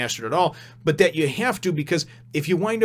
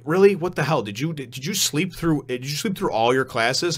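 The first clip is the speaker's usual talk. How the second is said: mock incredulous scolding; 3 semitones higher than usual. Teacher to clueless Naruto about chakra, mock incredulous. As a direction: act the disbelieving teacher, stumbling over the question.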